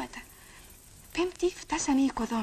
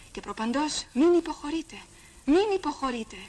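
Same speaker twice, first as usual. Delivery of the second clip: exhorting; 4 semitones higher, 5 dB louder than usual. Acted. Exhorting crowd under tear gas.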